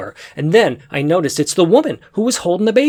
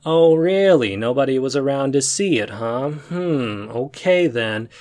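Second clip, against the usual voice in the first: skeptical; 2 semitones lower than usual. Retold or imitated. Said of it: "No, you go".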